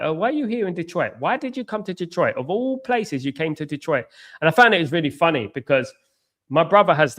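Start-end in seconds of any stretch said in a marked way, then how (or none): 0.0-4.0 puzzled locals. Retold or imitated. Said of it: "people were like".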